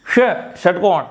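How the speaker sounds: ष in षटकोण with the tongue curled back; retroflex sh. Shown as a demonstration. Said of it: "आप षटकोण बोलते हैं अक्सर".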